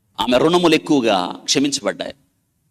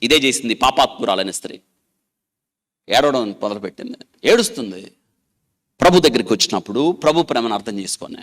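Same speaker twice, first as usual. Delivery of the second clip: usual speaking voice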